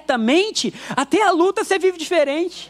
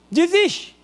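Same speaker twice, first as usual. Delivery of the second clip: desiste pitched higher, after a long pause; emphatic desiste; 4 semitones higher than usual. Shown as a demonstration. Preacher repeats the word for the church: higher emphatic desiste. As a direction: land desiste high and firm. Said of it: "Fala bem rápido pra você".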